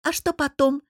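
lightly scoffing; wry hmph. A narrator's reading. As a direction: prod with a touch of mockery. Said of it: "хмыкнула Рита".

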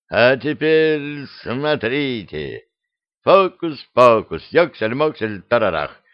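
фокусник колдует. Acted. Кот произносит заклинание фокусника.

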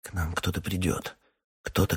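ordinary delivery, nothing marked

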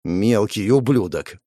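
usual speaking voice

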